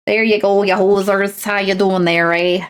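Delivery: hammed-up Canadian hoser greeting; Canadian accent. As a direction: put on a folksy Canadian accent. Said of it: "the Canadian accent's so romantic".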